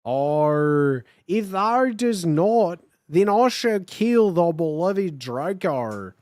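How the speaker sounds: slow, loud hammed-up Australian accent; offensive Australian accent. Voldemort threatening the narrator in offensive Australian accent. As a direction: overdo the Aussie villain. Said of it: "the most offensive Australian accent".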